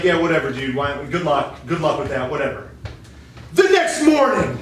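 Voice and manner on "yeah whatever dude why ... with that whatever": lower, bored brush-off; dismissive. Acted. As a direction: shrug it off like you couldn't care less. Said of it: "King George is like".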